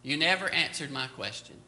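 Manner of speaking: calmly. Retold or imitated. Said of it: "I just said calmly again".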